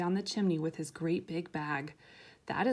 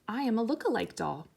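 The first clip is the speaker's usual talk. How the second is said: important doll; 4 semitones higher, faster than usual. Acted. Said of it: "She sounded important".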